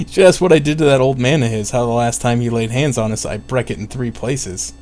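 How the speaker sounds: attack it in a bad country dialect accent. Spirit boasting about breaking his bones, dialect accent. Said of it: "I'll do the accent, but it's gonna be terrible".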